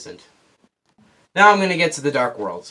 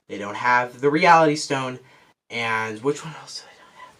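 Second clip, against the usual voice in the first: out of breath. Real, not acted. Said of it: "Now I'm kinda just running out of breath here".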